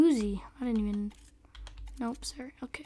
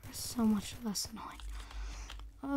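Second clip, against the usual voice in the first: whispering; 6 dB quieter, much slower than usual. Real, not acted. Relieved aside while playing.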